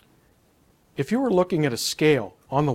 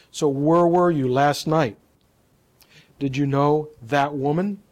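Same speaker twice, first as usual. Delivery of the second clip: WHERE and THAT leaned on in a questioning tone; interviewer's questions with "where" and "that" stressed; emphasizing key words. Shown as a demonstration. Coach imitating an interviewer questioning a guest, stressing "where" and "that". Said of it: "Emphasizing words with fist pumps".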